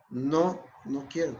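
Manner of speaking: unmoved no with falling end; firm, even refusal. Shown as a demonstration. Patient answering the pushy smoker, firm and even. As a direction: repeat it calmly, without budging. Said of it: "con el mismo tono de voz".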